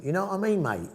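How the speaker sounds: casual London Cockney chat; Cockney accent. Shown as a demonstration. Local student showing off his adopted Cockney accent. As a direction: put on street Cockney. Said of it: "I have a Cockney accent".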